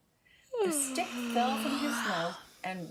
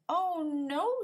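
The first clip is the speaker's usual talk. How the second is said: alarmed; 8 semitones higher, 4 dB louder than usual. Acted. Baton missing, dismay.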